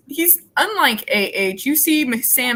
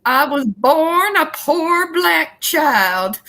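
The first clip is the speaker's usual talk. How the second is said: quoting the movie line slowly; 5 semitones higher, much slower than usual. Retold or imitated. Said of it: "starts with".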